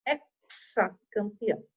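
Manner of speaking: "hexacampeão" with a drawn-out KS for X. Shown as a demonstration. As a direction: say "hexacampeão" slowly, as EK-sa. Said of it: "a gente usa o som de".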